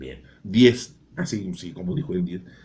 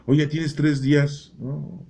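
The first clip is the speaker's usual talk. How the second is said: slow, raised mocking wife voice; nagging wife; 6 semitones higher, 4 dB louder, much slower than usual. Wife scolding absent husband, slow and higher. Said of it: "como dicen".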